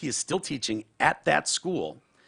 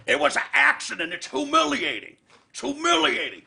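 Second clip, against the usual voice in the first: high, loud mock plea of shame; ashamed friend; 5 dB louder than usual. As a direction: wail it like a caught kid. E pleading to manager.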